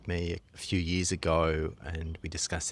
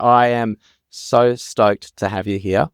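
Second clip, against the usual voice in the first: higher, louder, stoked welcome; real excitement; 4 semitones higher, 12 dB louder than usual. Real, not acted. Podcast host welcoming a guest he's stoked to have, excited. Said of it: "I'm, I'm excited".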